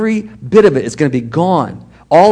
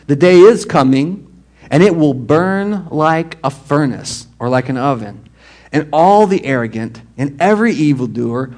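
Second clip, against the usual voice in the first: preaching scripture; 3 dB louder than usual. Acted. Reading scripture with weight.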